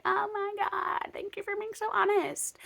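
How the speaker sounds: drip with sarcasm; sarcastic thanks. Retold or imitated. Thanking the leader sarcastically for honesty.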